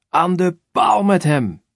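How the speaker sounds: high, slow, loud mob shout; crowd shouting. Acted. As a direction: bellow it out slowly like a crowd demanding death. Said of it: "Het volk schreeuwt". (trage, luide schreeuw van het volk)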